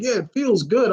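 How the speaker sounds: lightly imitated crazy villain, pitched high; villain relishing pain. Crazy villain with branches up his nose, high-pitched light imitation. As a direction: lift the pitch for a mock villain line.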